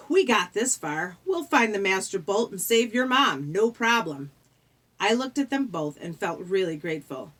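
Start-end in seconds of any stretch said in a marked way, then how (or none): 0.1-4.3 louder, upbeat reassurance; chiming in. Acted. Grover backs up the quest, chiming in eagerly. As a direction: pipe up to rally a friend. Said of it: "he chimed in".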